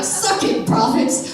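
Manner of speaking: high, breathy gloating jab; mock taunt. Elijah taunting the defeated prophets, playful mock gloat. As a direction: rub it in like a cocky winner. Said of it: "he probably didn't say that".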